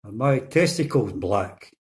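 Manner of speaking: slow, muffled mumble of a patient; lightly mumbled question from a hospital trolley; mumbled through a mask. Retold or imitated. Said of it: "he mumbles through his mask".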